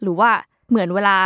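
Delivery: ordinary delivery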